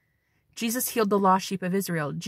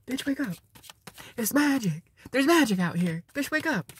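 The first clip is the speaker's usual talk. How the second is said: bumblebee voice. Acted. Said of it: "The bee is like".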